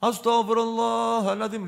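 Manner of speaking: soft, breathy, pleading istighfar; a light mock of a worshipper repenting; mock fervent istighfar. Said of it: "lebih banter dari imamnya".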